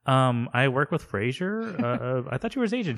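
Roz. Acted. Roz reminds the agent who she is, mild protest. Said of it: "Roz is like".

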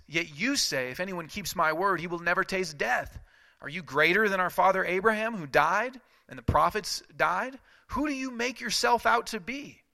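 high, loud indignant challenge; outraged accusation. Acted. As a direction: challenge him in disbelief. Crowd accusing Jesus.

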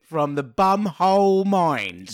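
slow, drawn-out eerie intro voice; hammed-up mysterious announcer; mock sci-fi announcer. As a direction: draw it out like a spooky title sequence. Riffing on sci-fi show intro.

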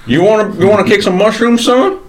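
lightly voiced old Southern gentleman, gruff; a hint of a cranky Southern colonel scolding; mild drawling Southern old-timer.

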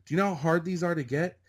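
high-pitched, imitating an astonished extra; incredulous explaining. Extra explaining the SAG voucher to clueless newcomer, incredulous. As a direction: press the point in high disbelief.

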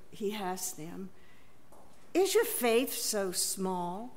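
measured gospel reading for the congregation; scripture reading. Acted. Reader telling the gospel story to the congregation, measured. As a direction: read it as a storyteller sharing a sacred tale.

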